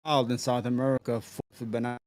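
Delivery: mic cutting out, volume dropping; words fading in and out on a bad mic; uneven volume. Real, not acted. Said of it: "your mic is cutting out".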